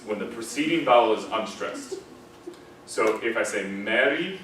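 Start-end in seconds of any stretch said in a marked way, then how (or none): 2.9-4.4 Mary said with plain E; normal Mary. Shown as a demonstration. Teacher showing students the normal Mary vowel. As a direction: say Mary with a clear bright E. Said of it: "that's normally E".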